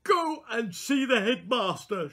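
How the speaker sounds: high, loud and slow through fury; furious teacher speaking slowly; slow, barely controlled. Acted. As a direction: hold back rage and say it slowly. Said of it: "she said slowly".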